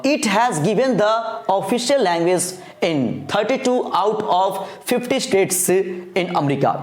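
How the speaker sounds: slow, word-by-word reading of the English text; slow dictation reading. Acted. Teacher dictating the note to students, slow and even. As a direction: read it slowly so students can write along.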